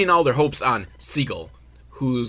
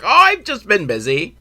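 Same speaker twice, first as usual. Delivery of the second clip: higher-pitched, badly faked Irish accent; botched Irish accent; 9 semitones higher, 6 dB louder than usual. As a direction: try for Irish and miss completely. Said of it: "What the fuck accent was that one?".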